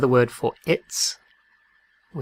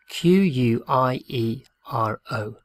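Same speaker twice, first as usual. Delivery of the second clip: spelling slowly. Shown as a demonstration.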